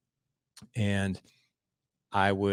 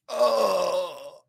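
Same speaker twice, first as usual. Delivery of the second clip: high-pitched acted "oh" of disbelief; shocked reaction; 11 semitones higher than usual. Dad reacts to mom calling her son weirdo, shocked. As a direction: act out being taken aback, pitched way up.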